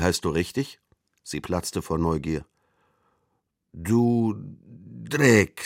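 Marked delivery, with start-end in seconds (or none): 3.7-5.6 put-on high, agitated boy's cry. A narrator's reading. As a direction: blurt it out, worked up. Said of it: "sagte der Junge erregt".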